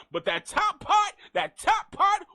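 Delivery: laughing. Real, not acted.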